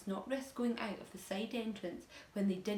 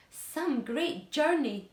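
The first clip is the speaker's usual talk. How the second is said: sarcastic grumble; 7 semitones higher, 8 dB louder, much slower than usual. A narrator's reading. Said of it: "the centipede said".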